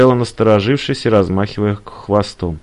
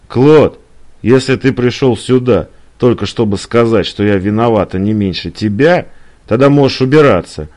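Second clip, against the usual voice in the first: raised-voice ultimatum; mildly furious girlfriend; angry Eliza; 4 dB louder than usual. Acted. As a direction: order him out, indignant. Woman throws him out.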